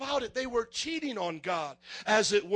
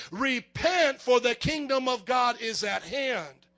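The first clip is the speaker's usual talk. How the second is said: preached call; 4 dB louder, slower than usual. Retold or imitated. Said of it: "Jesus began to preach".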